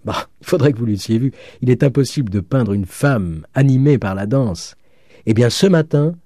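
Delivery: animated rave, rising in pitch; excitement building as the tale goes on; enamoured student. Acted. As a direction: gush about the lovely countess. Student raves about countess.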